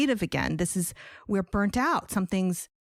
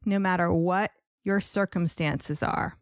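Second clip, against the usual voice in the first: scripted, measured welcome read with lifted key words; podcast host introduction. Real, not acted. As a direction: present the guest like a podcast host.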